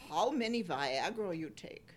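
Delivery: lightly imitated German accent. Quoting Doctor Ruth's advice to listeners, light German accent. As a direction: put on a little German accent. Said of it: "in her little German accent".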